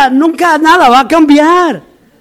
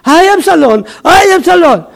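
higher-pitched imitation wail; mock weeping lament; 3 semitones higher than usual. David crying for his son Absalón, mock wailing. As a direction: lament like a grieving father, lightly acted. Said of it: "llorando por Absalón".

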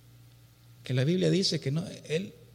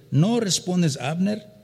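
calling out; 4 semitones higher, 6 dB louder, slower than usual. Acted. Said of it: "Y dio voces David".

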